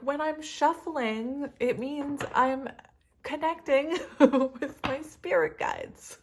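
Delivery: mock mystical voice to her partner; hammed-up mystic. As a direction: ham up a serene mystic. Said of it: "I didn't say it like that".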